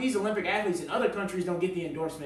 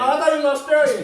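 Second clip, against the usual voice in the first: laughing realization; 10 semitones higher, 12 dB louder than usual. Real, not acted. Realizing his mistake, laughing.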